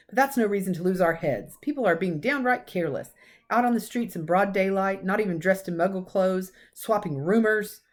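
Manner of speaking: lightly voiced stern old professor, cross; a hint of a brisk Scottish teacher scolding; McGonagall. Professor scolding Dumbledore about careless celebrating, lightly stern.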